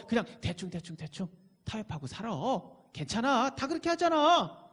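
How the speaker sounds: lightly voiced sneering tempter; tempting devil. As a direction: coax and mock like a devil, lightly. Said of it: "사단은, 이 악한 영은 자꾸 우리의 정체성을 공격합니다". (비웃듯 유혹하는 사탄 말투, 가볍게)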